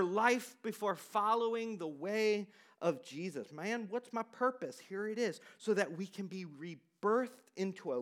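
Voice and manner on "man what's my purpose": put-on a touch of Southern accent. Preacher calling back the purpose-seekers, in a light Southern accent. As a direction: slip briefly into a Southern-accented quote. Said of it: "I go to a Southern accent".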